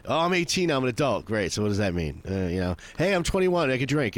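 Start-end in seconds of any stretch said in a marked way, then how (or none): 0.1-1.3 high, bright mocking voice of a proud teen; mocking a proud young adult; mock proud boast. Mocking young people's milestones. 3.0-4.2 high mocking voice bragging about turning twenty-one; mock proud boast. Mocking milestone birthdays.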